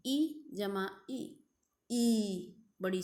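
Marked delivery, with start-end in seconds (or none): 0.1-1.2 slow demo. Shown as a demonstration. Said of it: "दोनों छोटी हैं".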